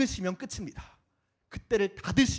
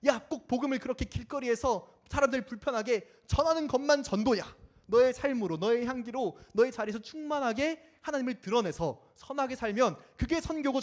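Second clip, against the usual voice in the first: higher, self-righteous lecturing; preachy lecture; 5 semitones higher than usual. Acted. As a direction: lecture them from a high horse. Preachy critic voiced. (훈계하듯 높은 목소리)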